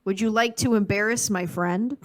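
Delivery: Midwestern nice, polite Wisconsin accent; sweet upper Midwest lilt. Shown as a demonstration. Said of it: "how it would sound if he was in Wisconsin".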